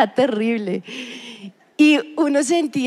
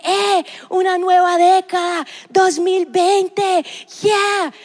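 mock New Year cheer; 4 semitones higher, slower than usual.

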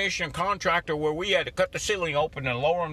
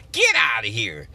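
loud, lower get out of here; dismissive shout; 6 semitones lower, 5 dB louder than usual. Real, not acted. Scoffing at his excuses, a loud shout. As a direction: wave the excuses away with a shout.

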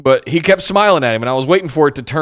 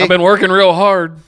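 lightly mocked Canadian accent, a bit higher; Kevin Owens impression; 4 semitones higher, 3 dB louder than usual. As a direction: join in the hammed Canadian act. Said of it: "Kevin Owens impression from now on".

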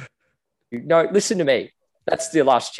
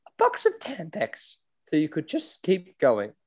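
Camilla voice; 4 semitones higher, 3 dB quieter than usual. Acted. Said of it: "What sort of box?".

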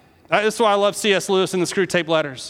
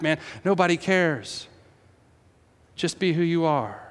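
demonic whisper; 3 semitones lower, 3 dB quieter than usual. Acted. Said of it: "they come in and they say".

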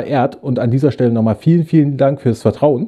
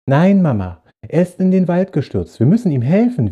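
put-on higher, insistent child protest; energetic protest; 5 semitones higher than usual. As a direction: argue with mum, firmly. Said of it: "widersprach der Junge energisch". (energischer Kinderwiderspruch)

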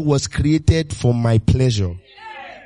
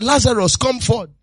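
raised, higher call of Lazarus come forth; loud call; 7 semitones higher than usual. Acted. Jesus commanding Lazarus from the tomb, a raised call. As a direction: summon him out with authority. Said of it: "with a loud voice".

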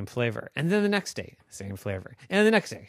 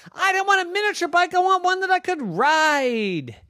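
put-on high, fast, whiny girl voice; arguing girl Noah; 7 dB louder than usual. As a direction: argue like a kid who wants more. Noah disappointed at tiny bike.

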